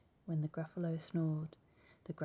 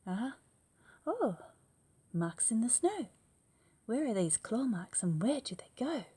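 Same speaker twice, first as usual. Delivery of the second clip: high loud gasp of discovery; gasp, then wonder aloud; startled child; 6 semitones higher, 4 dB louder than usual. Acted. Gruffalo's child spotting claw marks, high surprised gasp.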